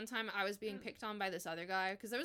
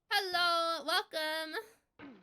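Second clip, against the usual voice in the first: excited greeting; 8 semitones higher, 7 dB louder, much slower than usual. Real, not acted. Greeting a new stream viewer.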